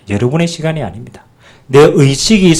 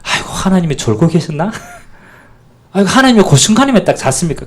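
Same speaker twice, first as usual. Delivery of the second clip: mock laughing complaint; 4 semitones higher than usual. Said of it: "그럼 뭐합니까?".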